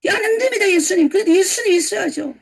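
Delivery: high, loud objection; acted-out indignant plea; protesting. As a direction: push back urgently, pitch jumping up. Acts out congregation protesting to Jesus.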